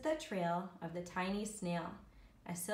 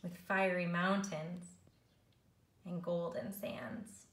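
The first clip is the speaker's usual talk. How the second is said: measured, rhythmic picture-book reading; story narration. A narrator's reading. Teacher reads snail story to learners, storytelling. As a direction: read the rhyme to young children, savouring it.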